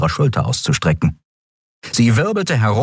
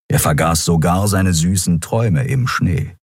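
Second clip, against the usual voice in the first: ordinary delivery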